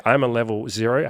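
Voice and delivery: rising, upbeat "I'm a level zero"; hopeful. Shown as a demonstration. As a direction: say it like a fresh start.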